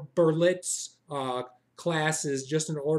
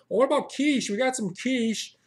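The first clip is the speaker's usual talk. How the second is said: pushy barista; 5 semitones higher, 4 dB louder than usual. Retold or imitated. Barista pushing quiche.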